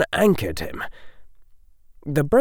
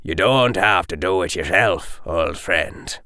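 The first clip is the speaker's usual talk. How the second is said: gentle; 3 semitones lower than usual. Acted. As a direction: ease a grieving old friend. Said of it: "now strangely gentle".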